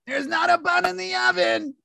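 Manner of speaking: lightly voiced teen girl; a hint of a sassy high school girl; quoting Stockard Channing. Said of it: "who has the all-time greatest line".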